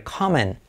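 "coming" said as "kamen"; Carmen without R. Shown as a demonstration. Teacher comparing with a Spanish name, "coming" as "kamen". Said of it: "como Carmen, pero sin R".

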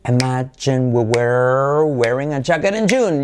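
stretched-out drill delivery; slow, linked teacher demo; slow model sentence. Shown as a demonstration. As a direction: draw the words out for learners to copy. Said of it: "la frase de referencia".

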